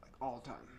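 words stretched by a yawn. Real, not acted. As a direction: talk through a yawn. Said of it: "sorry, I keep yawning".

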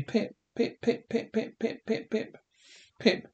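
put-on pleading for the boy's attention; urgent calling. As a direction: keep calling the boy, one quick burst after another. Father calls boy slipping away.

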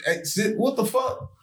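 high, laughing telling of the restaurant scene; laughing retelling. Real, not acted. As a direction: tell it while cracking up, pitched high.

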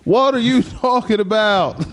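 high, slow, incredulous coach; Coach McCullough. Retold or imitated. Coach baffled by a student, high drawn-out coach impression. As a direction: drag it out high, breaking into a laugh. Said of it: "That's exactly how he sounds".

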